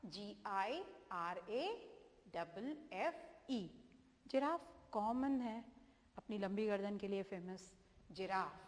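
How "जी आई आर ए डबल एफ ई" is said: slow spelling. Shown as a demonstration. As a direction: spell out each letter very slowly. (धीरे धीरे spelling बताना)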